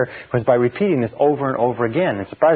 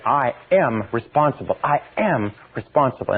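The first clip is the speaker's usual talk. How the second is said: earnest and convinced; with feeling. Shown as a demonstration. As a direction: say it like you believe it. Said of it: "emotionalize it".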